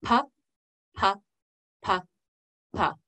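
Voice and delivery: single "pa" sounds, spaced out evenly; slow, even beat. Shown as a demonstration. Teacher demonstrating the exercise's first pattern, slow beat. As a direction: say each "pa" separately on a slow beat. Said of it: "our slow one being our regular beat".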